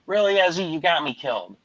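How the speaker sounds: high incredulous question, sinking after; mock-wounded complaint; retold reproach. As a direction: act out exasperation at the cat. Retells reproaching the cat.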